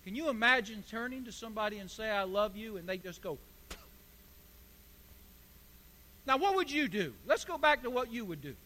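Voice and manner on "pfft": short scoffing puff of air; dismissive pfft. Acted. Answering somebody's "I love you", dismissive puff. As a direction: brush it off with a puff.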